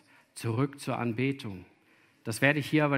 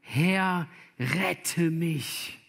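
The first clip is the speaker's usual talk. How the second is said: raised, higher-pitched cry for rescue; mildly dramatised plea, pitched up; acted crying out; 4 semitones higher, much slower than usual. Sinking Petrus calls to Jesus for help, acted cry. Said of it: "schrie er und sprach".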